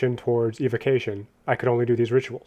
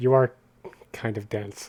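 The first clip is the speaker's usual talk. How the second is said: hushed, muttered under the breath; 2 semitones lower, 3 dB quieter than usual. Insulting the counsel during an in-character trial: muttered under breath. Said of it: "that was said under my breath".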